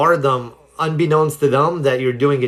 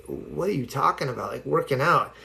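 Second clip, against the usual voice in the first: strung-out confusion; 8 dB quieter than usual. Retold or imitated. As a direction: mumble it softly, a bit dazed and puzzled. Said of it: "he's all strung out".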